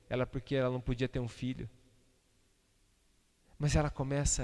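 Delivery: ordinary delivery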